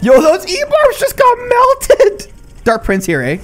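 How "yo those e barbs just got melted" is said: high, loud, slow yell; hyped shout. Real, not acted. Gamer yelling as enemy troops melt, hyped shout. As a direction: yell it like a huge play. Big play hype shout.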